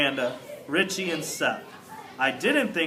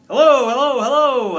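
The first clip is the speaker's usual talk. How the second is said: high, loud excited hello; excited shout; 8 semitones higher, 10 dB louder than usual. Acted. Hamster greeting Aldo after lonely hours, high excited shout. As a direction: shout your joy, much higher and louder. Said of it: "I shouted".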